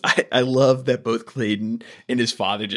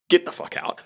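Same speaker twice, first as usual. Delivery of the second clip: whispered, pitched-up get-out; mock hissed order; 7 semitones higher than usual. Host voicing Baronier's foot-down moment, whispered. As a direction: hiss it like a final dismissal. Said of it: "he's just like".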